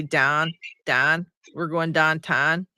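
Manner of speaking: light Pittsburgh accent, slow, 'downtown' said like 'dahntahn'; slow 'Don, Don, we're going downtown' with the Pittsburgh 'ow' flattened to 'ah'. Shown as a demonstration. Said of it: "they say".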